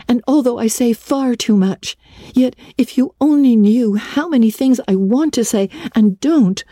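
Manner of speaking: put-on high, earnest girl's voice; a chatty girl promising to behave; eager girl. A narrator's reading. Anne begging Marilla to tell, high and earnest.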